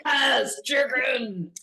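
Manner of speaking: a mock whoop of delight at the news; excited cheer. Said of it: "he was like".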